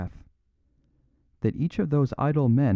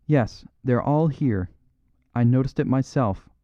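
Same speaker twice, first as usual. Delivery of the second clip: cried out; 3 semitones higher than usual. Acted. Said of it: "cried the young duke".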